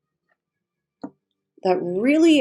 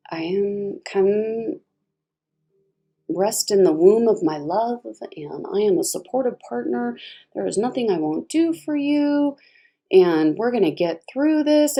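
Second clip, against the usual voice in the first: tender supportive partner. Pretend. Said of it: "polar extremes".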